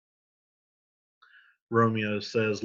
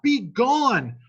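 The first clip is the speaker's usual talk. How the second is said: be gone cried much higher and louder; desperate cry; 12 semitones higher, 7 dB louder than usual. Acted. Romeo driving Paris away, desperate high cry. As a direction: fling be gone out high and loud. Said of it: "And Romeo says".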